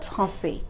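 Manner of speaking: français as "frahn-SAY"; wrongly voiced final E. Shown as a demonstration. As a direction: add a closed "ay" after the S in français. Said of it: "Not français".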